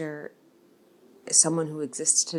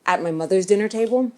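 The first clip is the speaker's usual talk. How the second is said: loud, raised voice rising at the end; loud and unrestrained, as at home; at mother's dinner table; 4 semitones higher, 8 dB louder than usual. Shown as a demonstration. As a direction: yell it across the family dinner table. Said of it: "I'm gonna behave very differently".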